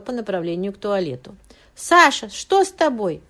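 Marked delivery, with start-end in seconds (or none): 1.7-3.2 high, loud anxious call to her husband; worried cry. A narrator's reading. Irina calls to her sick husband in worried alarm. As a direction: call out to him in sudden alarm. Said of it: "заволновалась Ирина".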